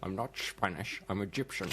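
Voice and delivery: lightly voiced Scottish movie star quoting Highlander; Sean Connery impression. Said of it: "Sean Connery".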